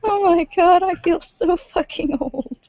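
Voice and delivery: high, slow, whiny lament; mock despair. Real, not acted. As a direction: wail it, feeling ancient. Lament about feeling old.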